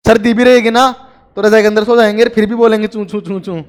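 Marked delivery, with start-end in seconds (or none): 2.9-3.6 soft mosquito chirp. Retold or imitated. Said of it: "मच्छरों की तरह".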